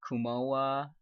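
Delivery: 고마워 eased out with each syllable clear; slow 고마워 down for learners. Shown as a demonstration. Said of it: "I'll say it again slower".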